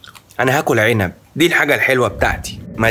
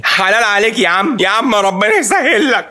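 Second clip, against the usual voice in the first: mock sobbing; 8 semitones higher than usual. Mock tearful blessing after losing money.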